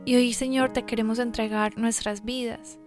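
soft, earnest prayer voice. Acted. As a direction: pray quietly and sincerely. Leads an opening prayer.

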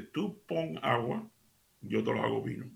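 slow, soft, spelled out; slow and deliberate. Shown as a demonstration. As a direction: say it slowly so it sinks in. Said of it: "Por si acaso no me entendiste".

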